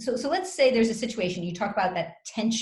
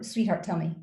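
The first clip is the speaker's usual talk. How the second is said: gentle invitation; 3 semitones lower than usual. Shown as a demonstration. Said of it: "none of this sarcastic".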